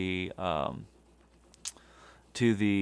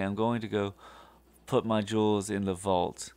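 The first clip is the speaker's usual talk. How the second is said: sarcastic. Retold or imitated. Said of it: "sarcastically say".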